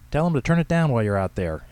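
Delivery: put-on old lady's bossy shout. A narrator's reading. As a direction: call after someone who is leaving. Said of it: "Henrietta shouted after him".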